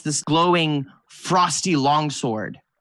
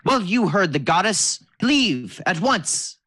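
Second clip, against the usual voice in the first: kobold orders the strangers off, voice pitched well up; bossy kobold; 5 semitones higher than usual. Acted. Kobold knight ordering the heroes to leave at once. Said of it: "looking at you and going".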